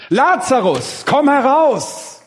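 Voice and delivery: high, slow, ringing call into the tomb; loud command. Acted. Jesus calling dead Lazarus out of the grave, loud slow call. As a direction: call him out loud and drawn out. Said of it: "rief er mit lauter Stimme".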